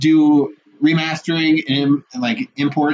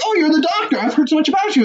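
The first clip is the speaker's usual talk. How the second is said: higher, lightly voiced flirty woman; woman in the film; 11 semitones higher, faster than usual. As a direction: play her as the eager host. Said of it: "he just goes to this woman's like".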